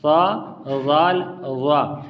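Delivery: slow, held سا، زال، وا with the last one thick; tongue-tip th, free of whistling; no whistle. Shown as a demonstration. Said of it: "سیٹی کی آواز".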